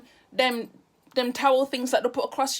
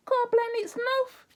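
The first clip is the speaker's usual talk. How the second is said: high, slow, mock prayer; high exasperated exclamation; 10 semitones higher, slower than usual. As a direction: raise it up like a sigh to heaven. Exclaiming in disbelief.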